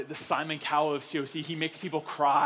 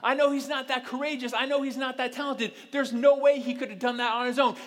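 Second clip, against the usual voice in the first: amused onlooker; 8 semitones higher, 6 dB louder than usual. Retold or imitated. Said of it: "everyone looks at it and goes".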